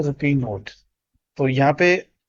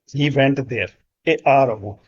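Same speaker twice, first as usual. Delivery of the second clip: slow model reading; much slower than usual. Shown as a demonstration. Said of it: "वह एक घंटा पहले वहां गया था".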